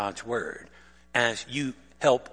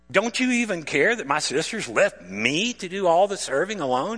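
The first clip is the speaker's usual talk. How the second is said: higher, louder reproach; exasperated complaint; 4 semitones higher, 4 dB louder than usual. Retold or imitated. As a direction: fling the complaint at him. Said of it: "So she proceeds to tell Jesus".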